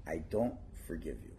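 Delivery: low stern refusal. Acted. Rabbi refuses host's apology.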